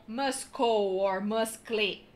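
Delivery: muscle with the c sounded as a k; wrong pronunciation. Shown as a demonstration. Teacher showing wrong ways to say muscle. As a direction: say muscle with a hard c, slowly. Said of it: "não".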